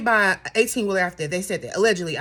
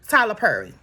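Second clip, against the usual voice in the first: put-on Baltimore accent; 2 semitones lower than usual. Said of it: "as she says in her Baltimore accent".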